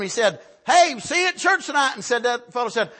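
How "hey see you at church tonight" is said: higher-pitched friendly call; imitating a holler across the way; retold holler. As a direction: call out to a friend, mildly raised. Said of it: "he hollered at him".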